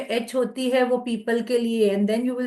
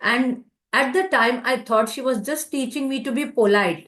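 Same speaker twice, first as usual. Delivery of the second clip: slow reading aloud; much slower than usual. Acted. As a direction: let the sentence unfold gently.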